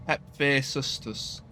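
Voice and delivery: "Hephaestus" sounded out slowly, falling at the end; tentative pronunciation. Real, not acted. Player trying a hard Greek god's name, slow careful attempt at "Hephaestus". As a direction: slowly feel through each syllable of "Hephaestus". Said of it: "people tell me how to pronounce it".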